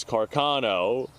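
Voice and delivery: Carcano with a flat American car-KAH-no; American pronunciation. Shown as a demonstration. Showing how Americans say the rifle name, Carcano. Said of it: "here in America, it's known as".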